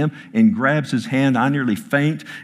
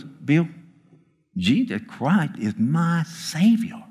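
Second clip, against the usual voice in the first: imitating Oz; 6 semitones higher, slower than usual. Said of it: "Just like that".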